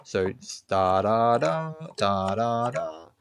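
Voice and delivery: "da" syllables joined smoothly; legato. Shown as a demonstration. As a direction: let each "da" flow into the next. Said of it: "we call that legato".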